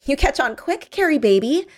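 high, teasing singsong praise; taunting. A narrator's reading. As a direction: tease him in a high voice. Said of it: "She laughed".

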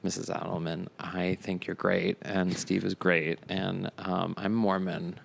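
soft, hesitant, timid confession; small, quiet, halting voice; retold nervous kid. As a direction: speak up meekly to a friend's mother. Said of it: "I'm getting nervous".

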